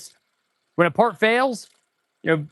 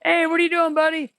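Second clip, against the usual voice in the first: high squeaky voice for the computer; computer's voice; 10 semitones higher than usual. Pretend. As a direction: play the car computer, pitched way up. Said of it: "the computer saying".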